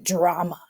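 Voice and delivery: "drama" said with open distaste; drama as a bad word. A narrator's reading. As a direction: spit out "drama" as if it were a dirty word. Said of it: "He says drama like it's a bad word".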